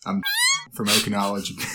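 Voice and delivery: cracked, breaking voice; voice cracking. Real, not acted. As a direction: voice cracks mid-intro. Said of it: "did I do it again?".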